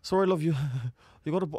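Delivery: high, amused attempt at Scouse; Scouser accent. Retelling the doorstep apology to the co-host, botched Scouser accent. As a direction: have a stab at a Liverpool accent, laughing. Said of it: "I can't do the Scouser accent".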